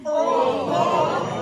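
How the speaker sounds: loud startled oh; captain shocked by the plan; surprised oh. Acted. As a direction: gasp at the idea. Captain reacting to crewmate.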